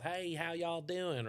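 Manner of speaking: slow, drawn-out deep South American accent. Shown as a demonstration. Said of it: "a deep South".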